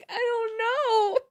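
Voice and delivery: slow laughing sigh of disbelief; a laugh melting into the words. Real, not acted. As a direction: give up between laughs. Laughing at the absurdity.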